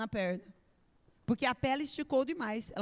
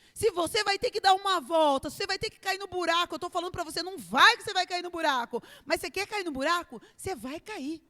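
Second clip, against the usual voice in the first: fervent preaching; 5 semitones higher, 4 dB louder, faster than usual. Real, not acted. Preaching at full force.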